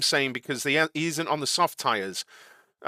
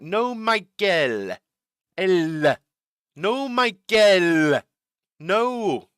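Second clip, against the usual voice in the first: put-on slow, louder, higher Austrian accent; imitating Austrian accent; 3 semitones higher, 3 dB louder, much slower than usual. Streamer mimics Toto's radio call in Austrian accent. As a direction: ham up the Austrian team boss on the radio. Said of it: "I will try and do, uh, the accent".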